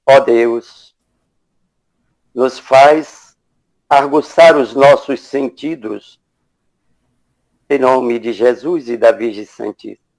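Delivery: measured prayer in short phrases with long pauses; unhurried invocation, phrase by phrase; spoken prayer. Real, not acted. Moderator praying to open the spiritual evening, measured invocation.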